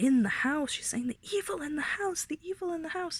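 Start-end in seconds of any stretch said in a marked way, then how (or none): 1.1-3.2 play-acted frantic, hysterical, high repeated screaming. Retelling a story about her, imitating her hysterical outburst. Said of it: "she was absolutely hysterical about the evil".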